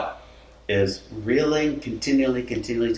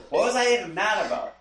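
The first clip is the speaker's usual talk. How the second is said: laughing; 9 semitones higher, faster than usual. Real, not acted. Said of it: "laughing at himself".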